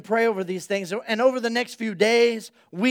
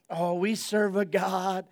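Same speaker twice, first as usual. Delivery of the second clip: slow, softer, lightly voiced old lady; old woman's voice; 3 semitones lower, 7 dB quieter, slower than usual. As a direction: give it a touch of aged Sarah counseling a friend. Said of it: "she says it in her old voice".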